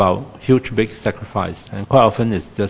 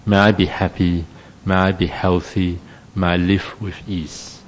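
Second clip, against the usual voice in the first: gentle self-wish; 2 semitones lower than usual. Shown as a demonstration. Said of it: "You wish for yourself".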